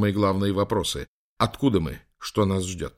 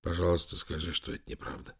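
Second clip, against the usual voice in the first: softer and softer whispered plea; whispering; 3 semitones lower, 10 dB quieter than usual. A narrator's reading. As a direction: whisper it, begging. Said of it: "прошептал Лэнгдон".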